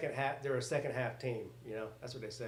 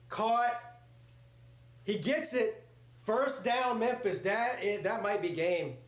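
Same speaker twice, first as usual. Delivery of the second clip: excited; 5 semitones higher, slower than usual. Real, not acted. Live reaction to a big catch.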